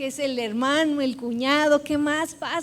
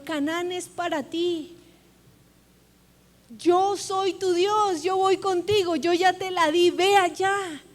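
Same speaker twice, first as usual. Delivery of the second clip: voice of God; 4 semitones higher, 3 dB louder than usual. Acted. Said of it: "el objetivo del Señor".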